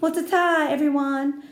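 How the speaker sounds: high, breezy farewell; show-off girl signing off; airy goodbye. Acted. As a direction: wave them off like a star. Lucille waving goodbye.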